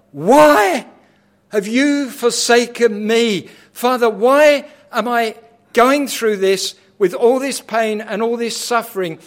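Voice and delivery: high, loud anguished scream; Why cried out high and loud; screaming plea. Acted. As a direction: scream it to the Father in pain. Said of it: "screaming out to the Father".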